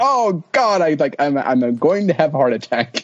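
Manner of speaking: hammed-up dread from a stressful game; mock panic. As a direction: start high on a groan and settle down. Acts out his stressed gaming reaction.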